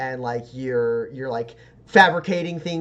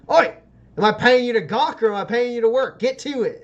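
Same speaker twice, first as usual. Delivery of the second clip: higher, louder boss telling off idle workers; Kilburn the boss barking; 8 semitones higher, 6 dB louder than usual. Acted. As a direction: snap the crew back to work. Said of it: "he goes".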